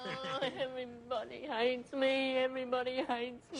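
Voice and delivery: slow hammed-up whine; mock self-pity. Paul refused a drink, slow mock whimpering. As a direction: wail it with fake misery.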